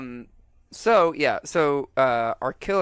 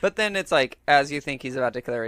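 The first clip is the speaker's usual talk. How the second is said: usual speaking voice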